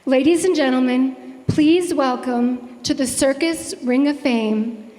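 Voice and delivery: showman's build-up, slowing on the name; announcer introduction. Acted. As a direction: present her like a ringmaster.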